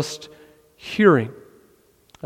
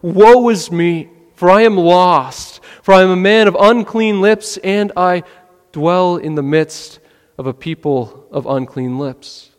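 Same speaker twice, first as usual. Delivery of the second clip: lament. Retold or imitated. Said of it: "he cries out".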